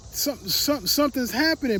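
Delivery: high, loud panicked shout for mom; panicked call for mom. Retold or imitated. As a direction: yell to mom to call nine one one. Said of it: "I cried to my mom".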